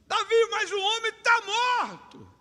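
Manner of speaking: high, slow puzzled question; lightly voiced soldier. A soldier to Davi at the dead giant, mildly puzzled. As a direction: ask it amazed, a bit drawn out.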